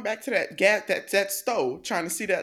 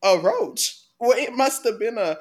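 louder, drawn-out mock outrage; slow, loud, laughing mimicry of the movie line; quoting the character; 4 dB louder, much slower than usual. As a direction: stretch every ass out in disbelief. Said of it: "one of my favorite lines in the movie".

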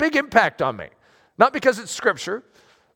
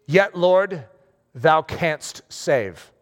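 earnest prayer; 3 semitones lower, much slower than usual. Retold or imitated. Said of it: "They prayed".

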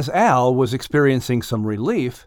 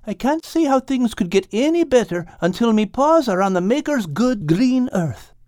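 glum cat; 9 semitones higher than usual. A narrator's reading. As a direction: moan it as the seasick cat. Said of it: "replied Al".

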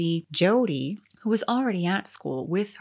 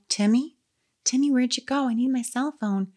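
calling out; 6 semitones higher than usual. Retold or imitated. Calling for Timmy in stairwell.

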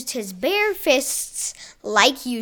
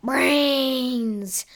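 zombie groan. Acted. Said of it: "the zombies all started groaning".

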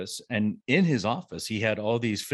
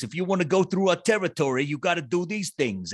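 a New York tough guy, pitched up and pushy; De Niro voice; 7 semitones higher than usual. Retold or imitated. Retelling Beltran's story, a mock De Niro New York voice. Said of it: "almost like a De Niro voice".

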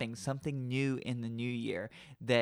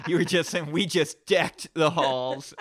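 laughing; 4 semitones higher, 7 dB louder, slower than usual. Retold or imitated. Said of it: "the enunciation of that".

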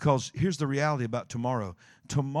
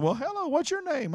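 piano teacher; 13 semitones higher than usual. Retold or imitated. Voicing piano teacher in retold scene.

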